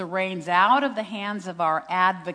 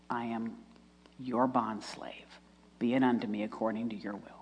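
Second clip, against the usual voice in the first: humble submission; 7 semitones lower, 6 dB quieter than usual. Retold or imitated. Retold surrender to God's will.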